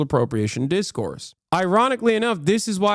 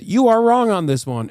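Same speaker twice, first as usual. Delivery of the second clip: mocking quote; 5 semitones higher, 3 dB louder than usual. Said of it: "That's why you said".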